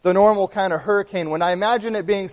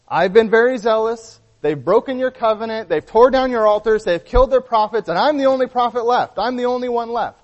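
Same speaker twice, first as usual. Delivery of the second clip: higher, louder prophet pleading his case; aggrieved complaint; 5 semitones higher, 4 dB louder than usual. Acted. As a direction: pile up the grievances, voice pitched up and insistent. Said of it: "he lodges the same complaint against them".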